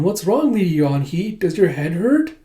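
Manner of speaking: lightly voiced little child; a hint of a toddler's voice; Yona. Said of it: "you see a baby Yona going".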